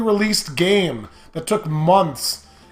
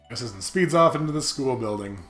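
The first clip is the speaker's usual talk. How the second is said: story narration; 4 semitones lower, 5 dB quieter than usual. Acted. Reads game narration aloud.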